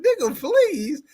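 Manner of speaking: high, slow, drawn-out mimicry; mock him slowly through laughter; put-on high voice, stretched out; little white dude. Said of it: "Little white dude".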